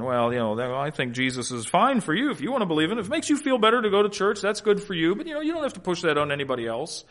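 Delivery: lightly voiced, quick brush-off; a hint of a breezy, noncommittal doubter; mock polite objector. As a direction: imitate someone politely dodging, quick and offhand. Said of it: "that's where they start to trip up".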